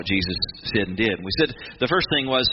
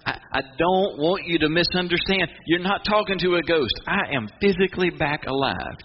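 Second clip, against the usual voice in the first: higher, earnest voiced Jesus; Jesus reassuring; 6 semitones higher than usual. Preacher voicing Jesus to his followers, higher and earnest. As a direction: press the point home, a little higher. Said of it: "It's like".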